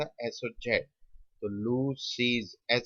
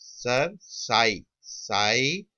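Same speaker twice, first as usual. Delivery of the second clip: isolated syllables with long gaps; slow sounding-out; much slower than usual. Shown as a demonstration. Teacher showing students the three sounds, slow sounding-out. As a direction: count out each sound separately. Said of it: "इसमें कौन सी sound है".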